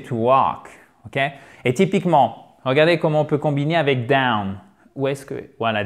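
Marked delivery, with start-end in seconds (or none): 0.0-0.7 "to walk" with no L sounded; teacher's "walk", L kept silent. Shown as a demonstration. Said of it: "Il n'est pas prononcé". (« to walk » avec le L muet)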